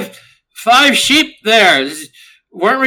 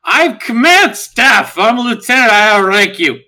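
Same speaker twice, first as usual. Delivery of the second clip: yelling; 3 semitones higher, 3 dB louder, slower than usual. Acted. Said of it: "Kara starts just yelling".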